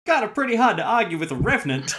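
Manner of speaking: laughing while talking, high and loud. Real, not acted. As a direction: crack up mid-sentence. GM cracks up.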